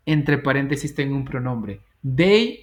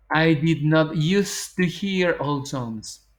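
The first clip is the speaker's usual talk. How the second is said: slow, careful model sentence; 2 semitones higher, much slower than usual. Shown as a demonstration. Teacher modelling irregular verb negation, slow. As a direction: lay out each word for learners. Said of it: "Con verbos irregulares".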